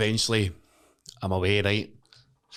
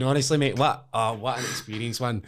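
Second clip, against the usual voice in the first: ordinary delivery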